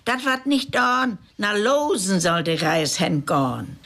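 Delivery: a hint of an indignant old woman; old woman insisting to the railwayman, mildly voiced; old woman protesting. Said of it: "schrie der Olsch".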